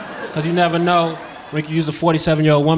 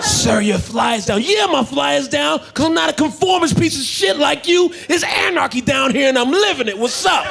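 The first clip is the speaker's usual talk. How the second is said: defiant shout; 9 semitones higher than usual. Retold or imitated. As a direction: yell it like a proud anarchist. Defiant reply, acted quarrel.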